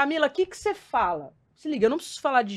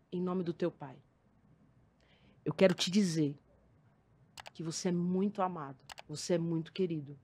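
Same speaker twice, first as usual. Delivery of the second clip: tender apology; 4 semitones lower, 4 dB louder than usual. Retold or imitated. Retold tender apology to student.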